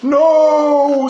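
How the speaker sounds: loud high cry of protest; a desperate shouted no; screamed. A narrator's reading. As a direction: scream to stop the crowd. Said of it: "screamed Bear".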